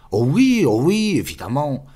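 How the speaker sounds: high, loud emphatic agreement; exclaiming. Acted. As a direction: burst out as if it's obvious. (exclamation emphatique, aiguë et forte)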